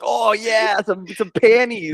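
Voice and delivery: high, slow leering tone; mock leering voice. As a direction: ham up a creepy teen boy. Boys staring at underwear, mocked.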